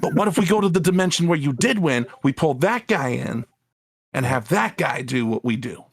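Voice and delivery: lightly voiced eager gangster henchman; a hint of an old-timey mob underling; 1930s minion voice. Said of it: "minion guy's got that, like, nineteen thirties minion voice".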